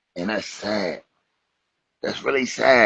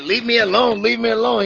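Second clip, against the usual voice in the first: high, snippy brush-off, hammed-up; shrill mock woman; 12 semitones higher than usual. Comedian mimicking a woman brushing off a helpful stranger, high mock voice. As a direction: shoo him away in a mock squeaky voice. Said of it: "She's like".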